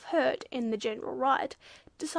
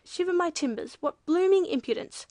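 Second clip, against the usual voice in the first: loud, higher-pitched indignant outburst; ejaculated; 5 semitones higher, 7 dB louder than usual. A narrator's reading. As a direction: exclaim in blustering outrage. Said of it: "ejaculated the judge".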